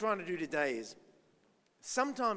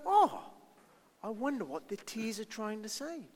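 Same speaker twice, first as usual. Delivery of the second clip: curious wonder. Retold or imitated. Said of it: "Be curious and say".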